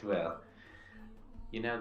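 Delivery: ordinary talk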